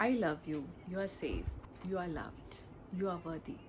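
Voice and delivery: soft, tender words to yourself; gentle self-affirmation. Shown as a demonstration. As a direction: say it softly like comforting a child. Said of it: "put your hands on your heart and say".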